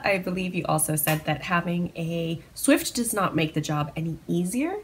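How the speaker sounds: talking between sips of tea; words around a sip of tea; sipping tea. Real, not acted. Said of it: "Sorry that I'm sipping tea in the podcast".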